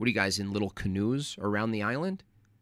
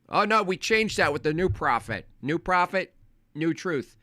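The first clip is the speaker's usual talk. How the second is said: higher, smug dismissive mimicry; mocking Mormon voice; 5 semitones higher than usual. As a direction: parody them brushing it off. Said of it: "Bro, your prophet".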